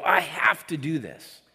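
slow, definitive declaration; heartfelt conviction. Acted. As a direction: state it slowly, as someone with conviction. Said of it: "they talk like this".

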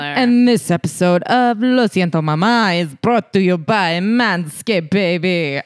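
bad Spanish accent sliding into Jamaican. Host hamming up the sponsor intro, Spanish-to-Jamaican accent. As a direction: wander from Spanish into Jamaican, drawn out at the end. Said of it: "went into every accent".

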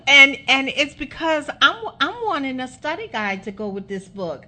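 words riding on a real laugh; laughing while talking. Real, not acted. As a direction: talk through the tail of your laughter. Host laughing while explaining.

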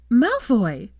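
loud, high call through the door; witch's shout. Acted. Hermione yelling to wake Draco, loud shout. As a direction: yell his name to wake him. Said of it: "His witch's shout".

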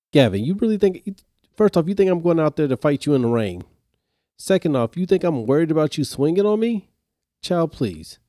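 mock-outraged teacher voice; incredulous teacher. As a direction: scoff at a kid's empty threat. Teacher scoffs at threat.

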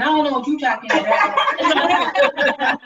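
slow, drawn-out words through laughter; laughing slowly. Real, not acted. Host teasing the guest about her fanny pack, slow laughing. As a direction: tease while laughing.

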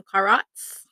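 "carrots" drawn out in a playful put-on accent. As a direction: stretch "carrots" slowly, as a mock accent. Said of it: "You have to add accents to them".

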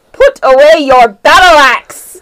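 loud, hissed order; urgent command. Pretend. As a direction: bark the order to put it away. Urgent Thieves' Cant message.

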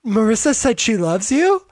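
gently sweet question, lightly acted. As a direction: ask it sweetly, imitating a hopeful mother. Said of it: "Kirsten very sweetly goes".

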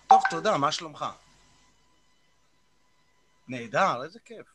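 answering an inner voice aloud, with pauses; lightly acted one-sided chat with yourself; talking to oneself. Shown as a demonstration. Coach demonstrates answering his own inner questions aloud, lightly acted self-dialogue. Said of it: "אתה יכול לעשות איזו הדגמה".

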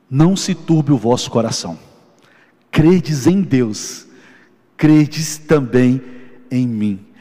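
words of Jesus. Retold or imitated. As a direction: let each phrase of the verse settle slowly. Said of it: "Quando Jesus fala isso". (citando Jesus, lento e solene)

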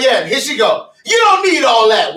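mocking exaggerated quote. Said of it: "I was like".

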